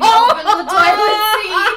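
high, loud, words bubbling with laughter; laughing while talking. Real, not acted. Telling her friend about hiding the sticker, laughing. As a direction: giggle through the explanation. Giggling while describing the prank.

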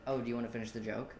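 soft, quick, low-key question; understated polite challenge, voice dropped. Retold or imitated. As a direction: retell it mildly and quietly. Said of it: "probably much softer tone".

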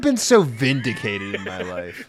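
laughing with glee. Real, not acted. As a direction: laugh through the words. Laughing in triumph.

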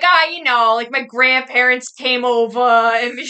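loud, drawn-out mock Boston accent. Man on a date claiming Irish roots, imitated Boston accent. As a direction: mimic a boastful Boston local, loudly. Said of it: "'Cause they got the accent".

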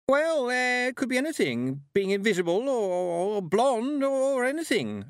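high, flustered babbling; panicked burble. A narrator's reading. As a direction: babble as your mind comes apart. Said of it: "Anagramma burbled".

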